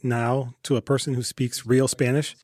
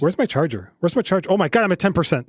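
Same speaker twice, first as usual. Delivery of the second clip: mock panic; 4 semitones higher than usual. Acts victim panicking over missing charger.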